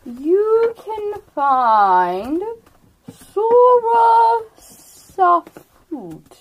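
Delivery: a lightly voiced ancient turtle, slow and drawn out; slow old turtle. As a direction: speak as an unhurried old turtle, letting each word sink in.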